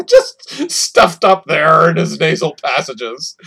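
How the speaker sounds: slow, words broken by laughter; laughing. Real, not acted. Co-host tickled by fire-breathing dinosaur claim, laughing. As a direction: laugh your way through the words.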